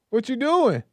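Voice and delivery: shocked. Retold or imitated. Moses sees his hand turn white.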